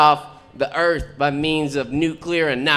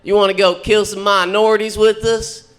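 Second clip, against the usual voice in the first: mock skinhead; 5 semitones higher, 5 dB louder than usual. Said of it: "they're like".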